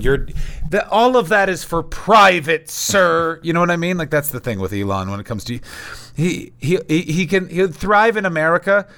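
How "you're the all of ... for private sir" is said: higher, put-on snooty European voice; mock a stuffy European dismissing success. Comedian mocks Europeans dismissing the rich, snooty voice. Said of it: "everyone in Europe is just going".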